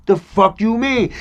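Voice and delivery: slow, high, loud retort; indignant. Retold or imitated. Man answering friend's doubt about him, indignant retort. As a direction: push back hard, drawing it out.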